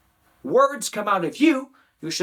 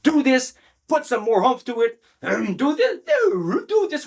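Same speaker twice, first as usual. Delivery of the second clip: mock speaking coach; 5 semitones higher than usual. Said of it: "Then you say".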